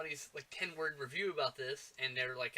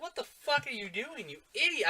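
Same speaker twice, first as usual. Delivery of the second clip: mock exasperated yell; 9 semitones higher than usual. Ranting at dumb movie characters.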